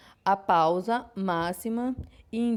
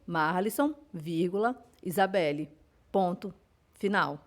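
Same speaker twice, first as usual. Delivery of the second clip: dictating aloud; slower than usual. Shown as a demonstration. Teacher dictating an example sentence to her students, slow and clear. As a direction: read it out word by word, like dictation to a class. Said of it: "eu digo".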